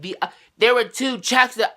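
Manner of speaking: mock clerk voice. Retold clerk explaining again.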